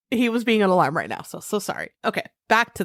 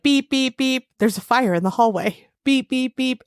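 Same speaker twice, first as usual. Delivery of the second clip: imitating alarm; 4 semitones higher than usual. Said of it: "It's like".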